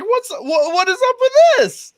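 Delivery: high, rising confrontational question; indignant demand. Retold or imitated. Soldier confronting former sergeant, indignant.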